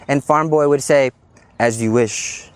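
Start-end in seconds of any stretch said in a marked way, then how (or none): 1.6-2.5 lovesick servant reply. Retold or imitated. Wesley answering the princess.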